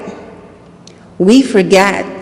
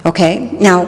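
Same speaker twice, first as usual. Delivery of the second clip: ordinary talk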